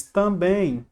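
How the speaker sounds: também with its last syllable marked as strongest; sílaba tônica destacada. Shown as a demonstration. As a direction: stress the final BÉM of também. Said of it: "é a sílaba mais forte". (destaque o BÉM final de também)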